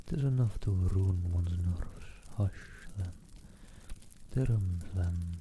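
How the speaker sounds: put-on hushing a crying baby softly; soothing hush. A narrator's reading. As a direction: coax the baby to sleep.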